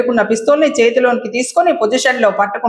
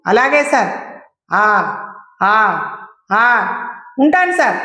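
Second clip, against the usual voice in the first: a touch of panic, eager to please; lightly flustered yes-sir answers. Acted. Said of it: "ఎగిరిపోయి కంగారు చోటు చేసుకుంది".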